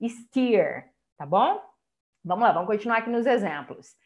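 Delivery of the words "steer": "Steer" said as stee-r with a long ee. Shown as a demonstration. Teacher models "Steer" for cattle vocabulary. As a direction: say "Steer" with a clear ee sound. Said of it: "vai ter um leve som de I".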